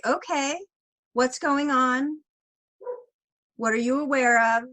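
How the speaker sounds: put-on slightly lifted, measured questions to a child; lightly acted check-in with a child; nanny checking in. Nanny asking an upset child what's happening, acted encouragement. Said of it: "And then I'll say".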